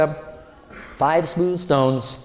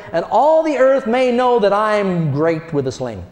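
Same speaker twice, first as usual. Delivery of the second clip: high, forceful defiance; high fearless challenge; in his face; 3 semitones higher than usual. Retold or imitated. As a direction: throw it at the giant. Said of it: "He says".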